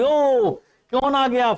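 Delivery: high, startled yelp of fear; startled cry. Acted. Teacher voicing Belinda's fright at the window, high startled cry. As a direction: gasp out who has come in. Belinda crying ouch at pirate.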